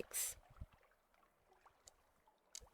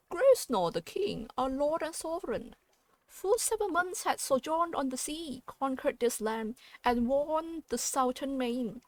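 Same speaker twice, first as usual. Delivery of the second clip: regal seneschal; 2 semitones higher than usual. Acted. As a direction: declaim it like a courtly herald. Seneschal's proclamation voiced in game text.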